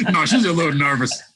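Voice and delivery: laughing. Real, not acted. Laughs while retelling wife's reaction.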